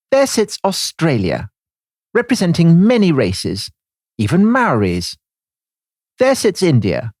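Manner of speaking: put-on a light Cockney accent for the diary reading. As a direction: read the diary in a hint of Cockney. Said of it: "wanted me to read that in a Cockney accent".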